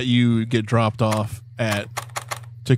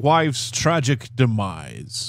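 put-on Italian accent. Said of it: "your Italian accent is just spot on".

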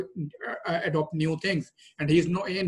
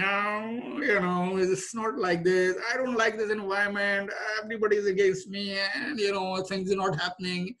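whining; 4 semitones higher than usual. Retold or imitated. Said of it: "the negative way is whining".

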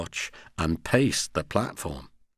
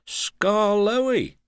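high, surprised exclamation; exclaiming; 10 semitones higher than usual. A narrator's reading. Controller recognising the old engine, surprised exclamation. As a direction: exclaim it on a raised pitch. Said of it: "he exclaimed".

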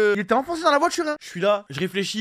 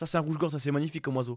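low, quiet, grave movie-trailer delivery; a hint of a gypsy man's solemn film narrator; mock dramatic film voice; 5 semitones lower, 6 dB quieter, faster than usual. A gypsy man at a petrol station admiring the dead robin, mock dramatic film voice. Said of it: "une voix dramatique de film".

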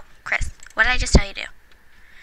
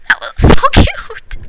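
much higher, slow laughing squeal; 10 semitones higher, 4 dB louder, slower than usual. Real, not acted. Watching father read to son, high squealing laugh. Overwhelmed by cute scene.

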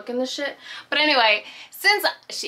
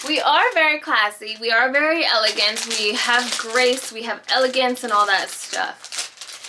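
mock posh; 3 semitones higher, 5 dB louder than usual. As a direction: play the snooty elegant lady, a bit tongue in cheek. Mock fancy lady act.

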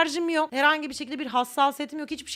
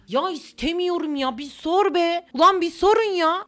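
from a slow whine up to a loud, higher outburst; building indignation; 4 semitones higher, 5 dB louder, slower than usual. Pretend. Refusing the melon at the table, rising to indignant shouting. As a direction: get more worked up with each line.

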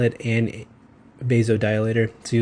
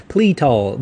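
Pletal said louder, with an Okie twang; Okie accent; 3 semitones higher, 5 dB louder than usual. Shown as a demonstration. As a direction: punch out Pletal like an Oklahoma Southerner. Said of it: "I say it kinda like an Okie".

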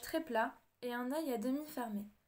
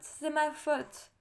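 slow, louder despairing cry on "ma"; anguished lament; 3 semitones higher, 5 dB louder, much slower than usual. A narrator's reading. Grieving king blaming himself for losing his daughter, slow louder anguish. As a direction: drag it out, hitting "ma" in despair. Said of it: "en se frappant la tête avec les poings".

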